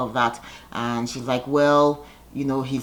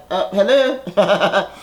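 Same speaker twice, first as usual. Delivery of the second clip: incredulous sass; 3 semitones higher, much slower than usual. Retold or imitated. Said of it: "all the ladies are like".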